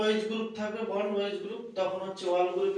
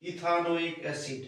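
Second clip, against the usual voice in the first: ইথানোইক acid said slowly and clearly; slow emphatic repeat; slower than usual. Shown as a demonstration. Teacher answering her own question slowly for the class. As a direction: repeat ethanoic acid deliberately after asking. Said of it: "কি?".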